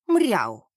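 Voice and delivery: cat's meow from inside a boot; muffled meow. A narrator's reading. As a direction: give a muffled, indignant-cat yowl. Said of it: "глухо доносилось из голенища".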